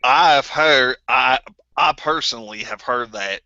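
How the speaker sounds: put-on southern accent slipping in; put-on accent sliding into southern; accidental southern accent. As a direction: let the accent drift southern by mistake. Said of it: "my accent just went southern".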